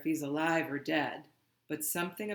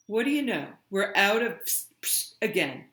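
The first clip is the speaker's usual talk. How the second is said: higher, louder mock-cheerful brother; lightly voiced teasing brother; imitating brother; 4 semitones higher, 6 dB louder than usual. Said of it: "he'd say".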